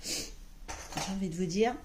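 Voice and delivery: hushed whisper, as if letting viewers in on a secret. Real, not acted. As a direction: lean in and whisper it to the camera. Confides a decision to viewers.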